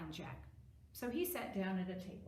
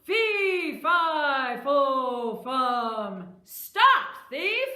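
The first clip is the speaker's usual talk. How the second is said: very loud, high roar stepping down, then leaping up; giant's yell; 5 semitones higher, 16 dB louder, much slower than usual. Acted. Giant waking to find a thief, yelling. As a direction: bellow the chant, then shout after the thief. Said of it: "and the giant yelled".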